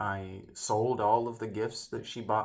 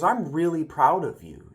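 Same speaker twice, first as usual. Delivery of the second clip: imitating emphatic pride, higher and louder; proud; 6 semitones higher, 8 dB louder than usual. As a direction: praise them with loud, lifted pride. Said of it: "looked at me so proud".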